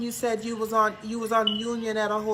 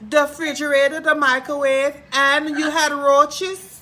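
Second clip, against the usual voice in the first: shocked disbelief; 4 semitones higher, 6 dB louder than usual. Real, not acted. Psychic hostess reacting to her friend's awful motel room, loud disbelief. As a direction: gasp at each missing item in disbelief.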